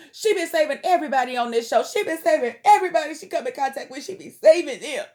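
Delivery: heated defense. Real, not acted. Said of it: "I'm so mad at him".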